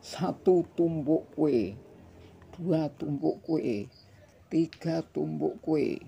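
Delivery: slow, loud counting; over enunciating. A narrator's reading. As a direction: count each stack out for kids. Counting out for children.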